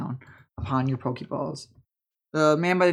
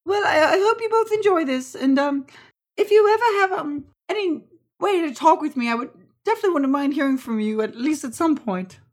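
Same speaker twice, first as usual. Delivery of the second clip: high, halting auntie voice; hopeful auntie farewell; 11 semitones higher, 6 dB louder than usual. Acted. Auntie hoping to hear from them, high hopeful voice. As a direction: say goodbye pitched well up.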